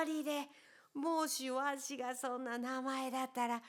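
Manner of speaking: lightly voiced joking old man; teasing old man. Old man joking about Pedrito's name, teasing.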